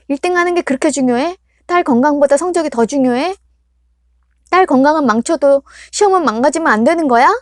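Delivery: loud, high accusing outburst, rushing at times; furious daughter. Acted. Daughter confronts her mother about the exam pressure, loud furious accusation. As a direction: pour out years of resentment.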